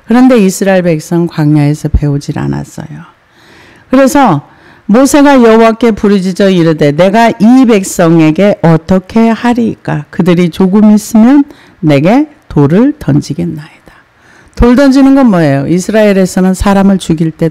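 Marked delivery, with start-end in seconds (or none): 3.9-13.8 solemn Bible reading, lightly marked; scripture reading. Acted. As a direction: read it like holy text.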